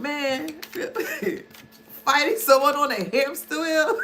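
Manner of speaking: ordinary talk, nothing marked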